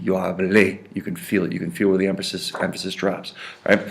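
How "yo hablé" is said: "hablé" stressed on its last syllable; stress on final E. Shown as a demonstration. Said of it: "Accent on that E".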